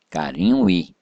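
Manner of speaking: "carinho e" linked with no break between the final vowel and "e"; vowels run together. Shown as a demonstration. Teacher demonstrating elision, vowels of "carinho e" run together. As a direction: glide straight from "carinho" into "e". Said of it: "os sons se emendam".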